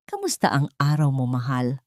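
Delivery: gently voiced tender husband; a touch of loving concern; caring tone. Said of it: "sa tonong puno ng pag-aalaga".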